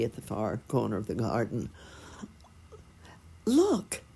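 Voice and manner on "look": high, bright little bird call; chirping. A narrator's reading. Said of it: "she chirped".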